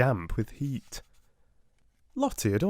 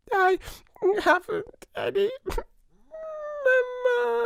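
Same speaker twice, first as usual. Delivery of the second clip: announcing Lottie. A narrator's reading. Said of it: "she announced".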